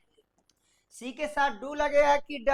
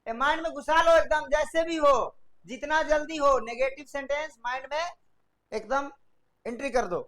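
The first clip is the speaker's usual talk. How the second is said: raised, louder teacher's push; urging the class to memorise, loud and insistent; emphatic urging; 3 semitones higher, 4 dB louder than usual. Real, not acted. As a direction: drive it into their heads.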